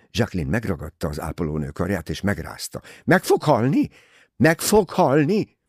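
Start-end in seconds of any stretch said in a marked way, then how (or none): 3.0-5.6 high, loud frantic pleading; begging the nurse in terror; frightened plea. A narrator's reading. Jacqueline begs the nurse for the truth, frantic and high.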